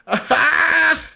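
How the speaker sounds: short rising shriek of laughter; sudden high laugh. Real, not acted. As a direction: burst out in a high cackle. Laughing at the chat.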